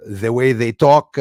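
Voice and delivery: put-on French accent in English. Shown as a demonstration. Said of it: "good imitations of certain accents".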